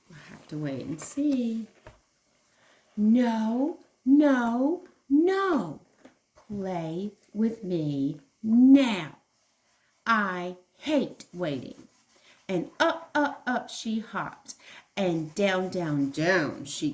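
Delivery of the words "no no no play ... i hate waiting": put-on loud stubborn child's tantrum, slow and drawn out. A storyteller acts out the little kangaroo yelling at her father. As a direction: stomp and wail like a cross little kangaroo. Jilly's temper tantrum voiced.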